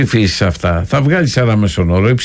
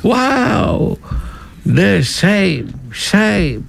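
high, drawn-out mock parliamentary jeer; heckling British MPs; 10 semitones higher, much slower than usual. Mimicking MPs trading insults in the Commons, high mock jeering. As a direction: imitate British MPs jeering, pitched well up. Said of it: "βριζόνται αυτοί".

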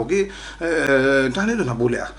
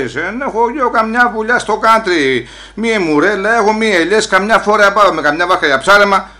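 raised, higher-pitched retort; hollered protest; 5 semitones higher, 4 dB louder than usual. Acted. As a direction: holler it back at the officer. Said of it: "Μη φωνάζεις έτσι". (φωναχτή απάντηση, ψηλότερη φωνή)

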